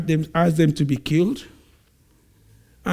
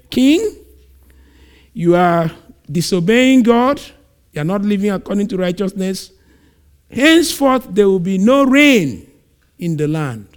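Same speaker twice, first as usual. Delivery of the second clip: stern prophet. Acted. Elijah confronts the king.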